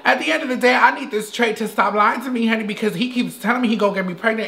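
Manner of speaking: a hint of a feminine character voice, half-hearted; Mimi. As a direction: play a dramatic woman looking for love. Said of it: "my name is Mimi".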